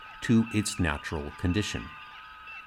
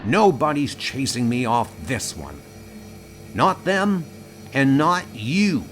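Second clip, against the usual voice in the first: higher, defiant refusal; 4 semitones higher than usual. Acted. Willis refusing to be chased off his world, defiant. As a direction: stand your ground, pitch jumping up.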